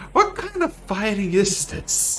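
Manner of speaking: bitter, breathy whisper. Voicing a red-faced character after an awkward fight: bitter in-character line. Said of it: "kinda bitterly".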